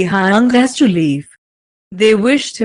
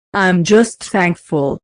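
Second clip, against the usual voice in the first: shaky voice. Acted. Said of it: "he replied in his shaky voice".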